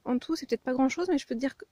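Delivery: panting between words; out of breath. Real, not acted. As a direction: still catching breath. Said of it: "je suis essoufflée".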